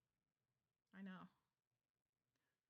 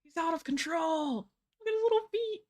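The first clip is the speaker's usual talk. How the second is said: high squealing cute voice; overwhelmed by cuteness; 7 semitones higher, 3 dB louder than usual. Real, not acted. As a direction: gush over the tiny feet. Gushing over cat.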